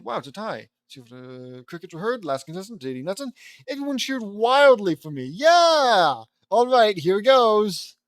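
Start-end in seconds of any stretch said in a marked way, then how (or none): 3.7-8.0 loud, high, hyped-up shout; wild cheering. Acted. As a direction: whoop it up like a cheering crowd. Reads the crowd cheering wildly.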